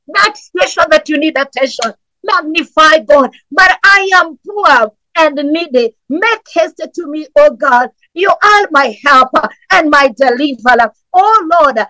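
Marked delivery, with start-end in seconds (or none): 3.5-11.8 impassioned preaching prayer, pitched up and pleading; fervent prayer. Real, not acted. Pastor pleading with God for his congregation, fervent preaching prayer. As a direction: cry out to God for urgent help.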